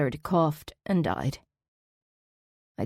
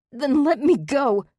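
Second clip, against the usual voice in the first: slow, much higher and louder demand; furious scream; 10 semitones higher, 6 dB louder than usual. A narrator's reading. Pinned by Zach, screaming demand to go. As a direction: throw it in his face. Still struggling against him.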